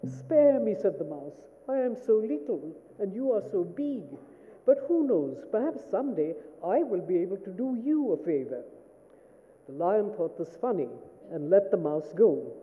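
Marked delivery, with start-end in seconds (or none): 0.1-0.7 high, theatrical plea of a mouse; overacted little mouse pleading; hammed-up mouse. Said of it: "I'm going to ham it up". 1.7-8.6 lightly voiced pleading mouse; mild storybook mouse voice; hammed-up mouse. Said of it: "I'm going to ham it up".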